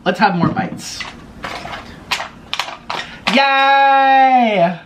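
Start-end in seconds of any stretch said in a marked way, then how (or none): 3.3-4.8 high happy squeal; excited cheer. Real, not acted. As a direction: cheer it out, delighted. Cheering for more food bites.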